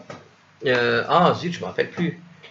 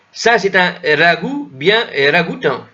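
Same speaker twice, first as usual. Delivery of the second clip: put-on higher, slower old French accent with a rolled R on ragoût; 6 semitones higher, 5 dB louder than usual. Shown as a demonstration. Teacher showing students the old French accent. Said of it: "d'accent comme ça qu'il y avait peut-être dans le vieux français".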